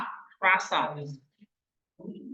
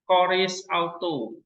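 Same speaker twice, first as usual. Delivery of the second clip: slow demonstration; slower than usual. Shown as a demonstration. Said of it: "Saya contoh yang lain".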